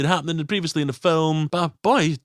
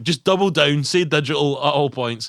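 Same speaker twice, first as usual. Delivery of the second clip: louder, mock rallying the team; rally them to double down, hammed up; mock pep talk; 3 semitones higher, 4 dB louder than usual. Producers rally each other, mock emphatic.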